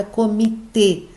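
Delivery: "comitê" broken up, landing on the final tê; stress on last syllable. Shown as a demonstration. Teacher gives example of aguda, stress on TÊ in "comitê". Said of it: "O T é a sílaba forte".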